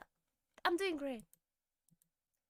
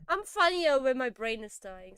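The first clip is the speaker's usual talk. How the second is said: laughing; 5 dB louder than usual. Real, not acted. Streamer cracks up at own mistakes.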